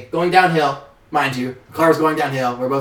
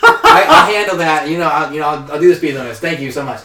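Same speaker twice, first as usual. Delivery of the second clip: higher, louder, stumbling thanks; relieved grateful driver; 4 semitones higher, 9 dB louder than usual. Retold or imitated. Driver thanking the officer, flustered louder thanks. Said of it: "I was like".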